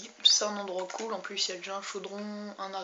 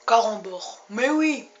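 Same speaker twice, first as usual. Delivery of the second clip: excited exclaim; 10 dB louder, slower than usual. Acted. Exclaiming about candy.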